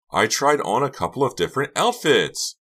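high, loud defensive protest; crying out. A narrator's reading. Karina explains arriving late, high defensive cry. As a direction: insist it frantically, pitch up. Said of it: "she cried".

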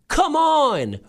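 high, drawn-out cheering call; imagined yell. Retold or imitated. Imagining a little girl at a soccer game, mock yell. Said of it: "you'd think she'd yell something like".

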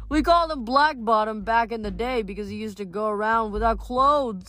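high, animated dwarf storytelling; chatty dwarf, reminiscing. Acted. Dwarfs recall Hercules to the boys, cheekily. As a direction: gossip about old times as a cheeky creature.

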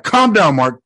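mock therapist calming a patient; doctor calming him. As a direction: play the doctor soothing Mark. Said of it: "Doctor Harrow's like".

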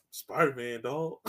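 low, soft, defeated answer; retold sheepish confession; glum mock reply. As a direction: admit it quietly and low. Villain's glum answer, acted out.

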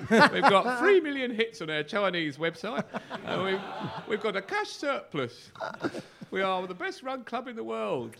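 slow, smug boasting with laughter; mock smug club boast. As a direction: parody a self-satisfied press release. Imitating smug club statement.

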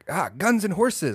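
high, slow, drawn-out mock amazement; Asian man's reaction. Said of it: "and the guy's like".

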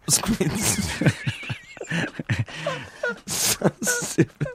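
can't finish, laughing; giggling fit; cracking up. Real, not acted. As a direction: squeak through laughter mid-word. Breaks up laughing.

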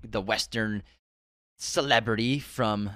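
slurred, drowsy speech; groggy from anesthesia. Real, not acted. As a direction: talk like you're half sedated. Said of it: "I'm talking weird right now".

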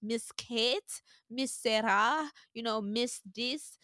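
lightly voiced prim teacher correcting sweetly; a touch of a prissy teacher scolding. Private school teacher correcting a child, mild prim scold. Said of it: "in private school, they're like".

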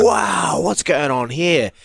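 high startled yell; retelling the panic at the bucking washer; alarmed shout. Retold or imitated. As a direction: shout in shock at the machine. Panicked at possessed washing machine.

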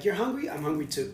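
mock careless echo. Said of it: "I just don't want 'em to be like".

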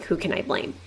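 unvoiced whisper under the breath; whispered thought. Shown as a demonstration. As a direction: whisper it like a thought kept to yourself. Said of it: "I wasn't thinking out loud".

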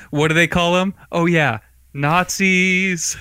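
slow, dreamy mermaid wonder; Little Mermaid voice. Retold or imitated. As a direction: imitate a wide-eyed mermaid, very slowly. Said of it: "like a Little Mermaid poll".

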